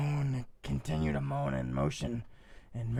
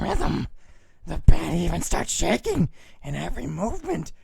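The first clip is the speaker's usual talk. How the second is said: louder, hammed-up wild reading; outlandish voice; 3 semitones higher, 4 dB louder than usual. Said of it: "an outlandish voice".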